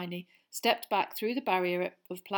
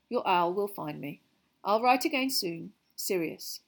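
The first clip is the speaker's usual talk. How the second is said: a steady, louder letter voice for Sirius; letter read in Sirius's voice; 6 dB louder than usual. Acted. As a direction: read it as the godfather writing.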